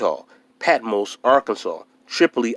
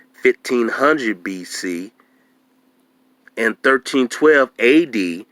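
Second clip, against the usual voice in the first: reading aloud. Shown as a demonstration. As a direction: read it out slowly, letter by letter. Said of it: "I want to show you this".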